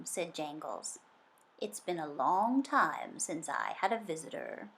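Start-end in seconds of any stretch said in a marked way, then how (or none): 1.6-4.7 a bit lower and softer, unhurried; a lonely old fish, gently glad of company; low soothing fish voice. Acted. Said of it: "His voice was so low and soothing".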